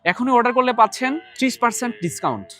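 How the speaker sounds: upbeat sales pitch read; infomercial. Acted. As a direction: sell it like a TV ad. Call to order with discount.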